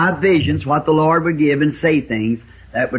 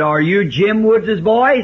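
high, slow surprised question; gruff old farmer asking surprised; old man's question; 5 semitones higher, slower than usual. Retold or imitated. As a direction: ask in disbelief. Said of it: "The old man spit".

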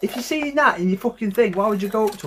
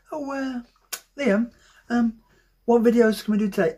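imagined requester; 4 semitones higher than usual. Acted. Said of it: "If you request to do that".

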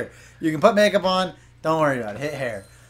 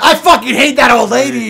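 mock rant; 7 semitones higher, 10 dB louder than usual. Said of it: "You walked in and went".

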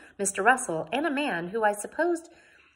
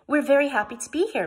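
high, louder cheerful answer; gay, smiling reply; 7 semitones higher, 6 dB louder, faster than usual. A narrator's reading. Missus Frink replying to Mister Russell, gaily. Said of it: "replied with a gay smile".

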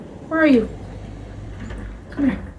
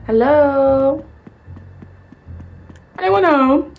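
calling out; 4 dB louder, much slower than usual. Acted. Calling into empty house.

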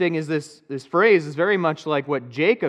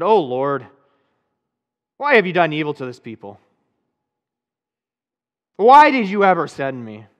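mild anguished outcry to God, louder on the questions; pleading complaint, rising in the middle; Moses crying out; 3 semitones higher, 3 dB louder than usual. Acted. Moses pleads with God after Pharaoh's refusal, anguished outcry.

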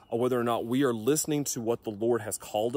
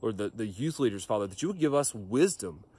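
earnest, steady prayer voice; closing prayer. Acted. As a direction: pray it over the congregation.

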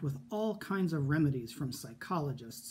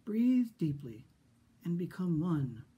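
soothing therapist. Acted. Therapist guiding calm breathing.

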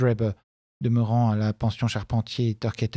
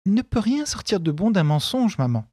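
a higher, clear voice full of conviction; clear and assured; 7 semitones higher than usual. A narrator's reading. Daughter urging her mother to honesty, clear and assured. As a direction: speak up plainly and firmly to your mother. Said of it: "d'une voix claire et assurée".

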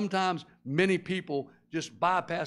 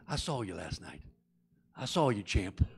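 taunting devil; 8 semitones lower, 4 dB quieter than usual. Acted.

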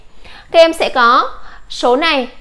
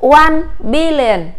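slow model reading; 2 semitones higher, 4 dB louder, much slower than usual. Shown as a demonstration. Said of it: "chúng ta sẽ đọc là".

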